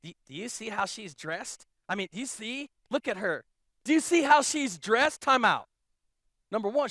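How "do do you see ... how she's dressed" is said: lightly mock the judgmental whisperers; gossipy judging. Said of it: "people saying".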